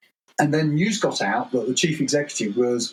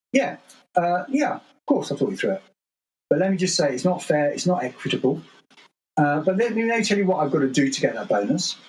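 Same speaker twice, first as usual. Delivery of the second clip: candid CEO; 4 semitones higher than usual. Retold or imitated. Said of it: "And he'd go".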